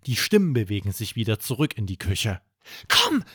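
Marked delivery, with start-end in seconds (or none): 2.9-3.2 gespielt geflüstert. Acted. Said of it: "flüstert Erik".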